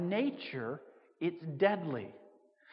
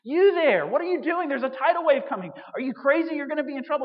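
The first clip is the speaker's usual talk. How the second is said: higher, louder shout across the water; warning shout; 7 semitones higher, 7 dB louder than usual. Retold or imitated. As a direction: yell a frantic warning to the surfer. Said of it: "So he shouts at you".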